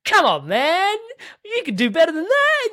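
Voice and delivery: high, loud mock scolding laughing; laughing imitation of a harsh inner critic. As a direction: scold yourself, half laughing.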